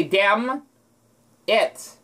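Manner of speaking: "Damn" held, then "it" after a pause; no N, split "Damn ... it"; silent N. Shown as a demonstration. Showing the N is silent in damn it. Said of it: "the N wouldn't be there".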